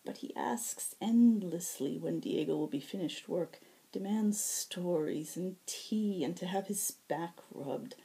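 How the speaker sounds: lightly voiced healer, fed up and complaining; exasperated healer. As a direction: sigh through the list of demands. Nether complains about Finn.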